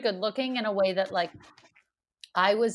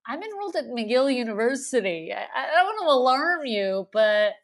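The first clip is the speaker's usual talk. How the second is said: exasperated retort; 3 semitones higher than usual. Retold or imitated. Acted retort to bossy manager.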